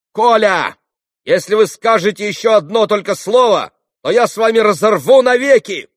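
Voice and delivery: high, loud, authoritative cry; commanding shout. A narrator's reading. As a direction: order him to stop at once. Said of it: "властно крикнул Алёша".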